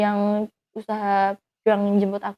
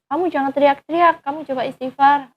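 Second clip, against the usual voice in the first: urgent pleading; 5 semitones higher, 5 dB louder than usual. Retold or imitated. Urging injured boyfriend to calm.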